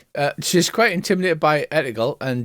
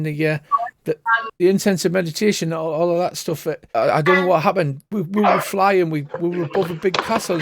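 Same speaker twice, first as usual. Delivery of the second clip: stammering seer, higher and rattled; a nervous fortune-teller who can't get her words out; flustered seer; 5 semitones higher than usual. Acted. Seer insisting to the party she had no idea what happened, flustered.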